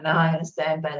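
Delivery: mild, low-pitched mock refusal; understated stubborn reply; retold refusal. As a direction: answer back from under the covers, lightly acted. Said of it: "And then I'm like".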